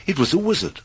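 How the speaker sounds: plain reading voice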